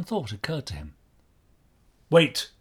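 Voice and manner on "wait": sudden louder, higher command. A narrator's reading. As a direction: stop them with one authoritative word. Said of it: "he commanded".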